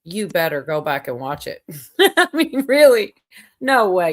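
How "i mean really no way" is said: incredulous. Real, not acted. Surprised he hasn't seen it.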